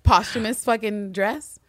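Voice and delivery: high, loud, sputtering disbelief; hammed-up indignation, stumbling over the question; mock outraged. Husband confronting wife about dress, mock outrage.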